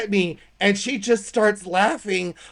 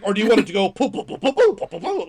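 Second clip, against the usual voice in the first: put-on baby talk; 2 semitones higher, 3 dB louder, faster than usual. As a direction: chirp "poo, poo, poo" like talking to a toddler. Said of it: "she's like".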